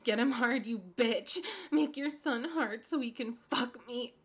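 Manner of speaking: ordinary talk, nothing marked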